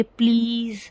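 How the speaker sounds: drawn-out, easy plea; gentle request. Shown as a demonstration. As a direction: demonstrate a polite request with falling tone. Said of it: "बिल्कुल आराम से बोलेंगे".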